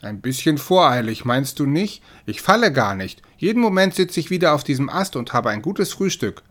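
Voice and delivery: trying hard to sound offhand; forced casual. Acted. Cat clinging to a branch plays it cool, forced casual. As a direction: brush it off like it's nothing. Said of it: "bemühte sich weiterhin um einen beiläufigen Tonfall".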